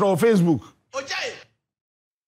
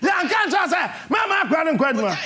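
retold scolding; 5 semitones higher, faster than usual. Boss scolding on phone, retold.

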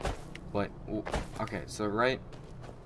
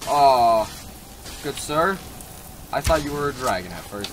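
mock posh greeting; 4 semitones higher, 8 dB louder than usual.

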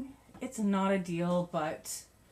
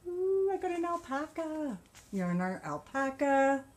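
excited squeal; 6 semitones higher than usual. Real, not acted. Excited about new alpaca yarn.

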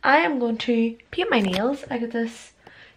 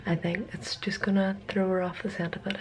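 whispering; 7 dB quieter than usual. Real, not acted. Secret plan, whispered.

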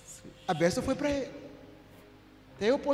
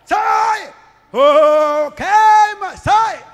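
high, loud shouting exorcist; hammed-up exorcism yelling, much higher and louder; mock deliverance shout; 9 semitones higher, 14 dB louder, much slower than usual. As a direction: yell it like a screaming exorcist. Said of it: "Até aqui eu não disse".

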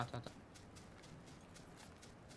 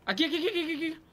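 high urgent repeated calls; excited calling out; 11 semitones higher than usual. Real, not acted. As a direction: point the enemy out fast. Pointing out enemy mid-fight.

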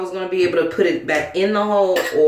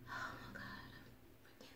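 slow, breathy whispered oh my God; relieved whisper; 32 dB quieter, much slower than usual. Real, not acted. Vlogger whispering relief to viewers after the ring goes in.

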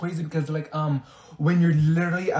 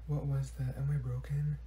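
worried undertone; 3 semitones lower, 13 dB quieter than usual. Acted. Muttering about own strange noise.

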